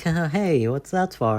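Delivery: re-enacted friendly brush-off with a giggle; chill, laughing reply. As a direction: laugh it off, easygoing and unbothered. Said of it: "I was so chill and down to earth".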